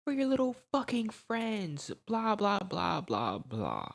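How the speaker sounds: high mocking middle-aged mom yelling for Chris; angry mom. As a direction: play the furious mother hunting them, high and shrill. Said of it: "So she's like".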